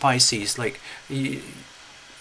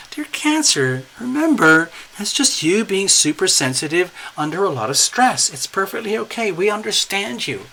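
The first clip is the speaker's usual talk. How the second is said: higher, sing-song soothing voice; sugary coaxing friend; 5 semitones higher than usual. Pretend. Friends at the door soothing a sensitive Cancer, high sugary coaxing. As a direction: coax her out like a fragile child, high and sweet.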